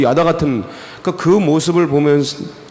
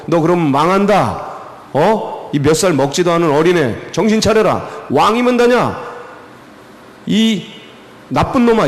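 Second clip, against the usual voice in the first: higher-pitched scolding, building in indignation; acted rebuke; 3 semitones higher than usual. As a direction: dress down a foolish youngster, pitch climbing. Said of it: "이분이 이제 책망하는 거".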